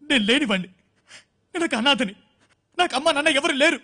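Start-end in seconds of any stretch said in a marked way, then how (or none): 0.1-0.7 a sob catching in the throat on the words; choked sob. Acted. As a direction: lower and breaking into a cry. Orphan lamenting lost love.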